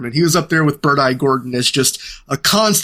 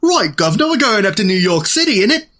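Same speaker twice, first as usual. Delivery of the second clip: hammed-up British Cockney, a bit higher; mock British accent; 5 semitones higher than usual. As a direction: play a Brit faking a trip to New York, lightly. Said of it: "attempt to portray Americans using a largely British cast".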